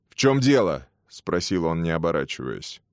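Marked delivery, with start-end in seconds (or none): 0.1-0.9 higher, louder, curt and fuming; sputtering foiled villain. Acted. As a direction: snap it back in helpless rage. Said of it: "в бессильной ярости шагнул к двери".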